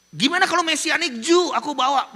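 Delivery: high, loud excited outburst; excited shout. Retold or imitated. Pastor shouting his eager suggestion to the soldiers. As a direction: blurt the idea out loud and eager. Asking soldiers about bringing someone.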